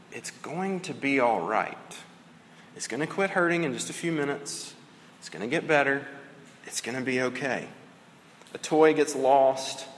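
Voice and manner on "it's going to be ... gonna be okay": reassuring. Retold or imitated. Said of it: "you come along and you say".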